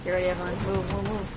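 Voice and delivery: urgent shout. Real, not acted. Enemies arrive behind the team.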